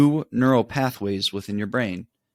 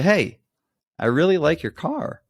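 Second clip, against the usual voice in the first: higher, sunny hey and compliment; bright friendly compliment; 6 semitones higher than usual. Retold or imitated. To a driver screaming at you, a higher, bright compliment. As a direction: chirp it out to disarm them.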